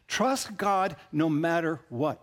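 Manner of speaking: slow, weighty, each word set down; slow emphatic refrain. Real, not acted. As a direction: press it home slowly, stress on Trust.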